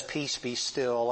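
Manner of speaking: slow, drawn-out "Peace, be still"; slow calm command. Retold or imitated. The Lord calming the sea, slow and steady. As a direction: let each word settle like calm water. This man's voice above the storm.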